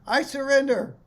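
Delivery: bright, lifted joyful cry; joyful surrender. Retold or imitated. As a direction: give up happily, laughing inside. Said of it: "and saying".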